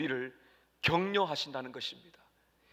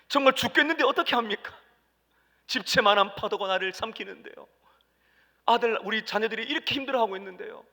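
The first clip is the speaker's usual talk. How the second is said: pleading prayer; 4 semitones higher, 5 dB louder than usual. Acted. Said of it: "이렇게 말씀드릴 수가 있죠".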